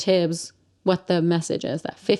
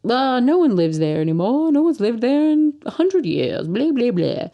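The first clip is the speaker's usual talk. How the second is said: put-on grouchy old dog; 4 semitones higher than usual. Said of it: "he's kind of grouchy".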